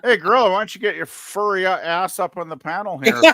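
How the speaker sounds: teasing call. Real, not acted.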